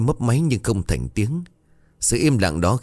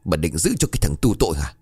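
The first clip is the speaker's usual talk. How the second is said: angry demand; 4 dB louder, faster than usual. Acted. Daughter-in-law demands money.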